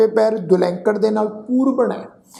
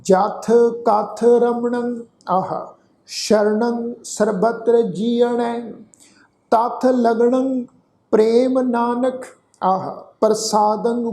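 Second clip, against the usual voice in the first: slow, drawn-out gurbani chant; slow recitation; 2 semitones higher, much slower than usual. Shown as a demonstration. Teacher reciting the whole shlok for the sangat, slow chant. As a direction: lay out every syllable of the shlok slowly. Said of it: "ਇਹਨੂੰ ਫਿਰ ਤੋਂ ਸੁਣੋ ਜੀ ਧਿਆਨ ਨਾਲ".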